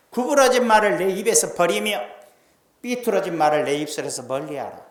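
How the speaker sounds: loud preaching, 구부러진 hit hard; proclaiming. Acted. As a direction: boom the verse out to the congregation. Preacher proclaims scripture loudly.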